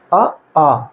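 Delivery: आ said twice, open and clear from the throat; vowel demo. Shown as a demonstration. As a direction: demonstrate आ from the throat. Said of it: "हम उच्चारण करके भी देख सकते हैं". (आ को कंठ से खुलकर बोलना)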